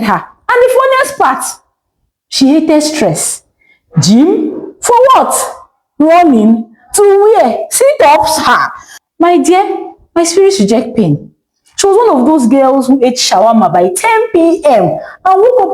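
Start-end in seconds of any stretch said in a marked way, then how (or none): 4.0-11.3 dismissive scoff. Acted. Ene scoffs at exercise.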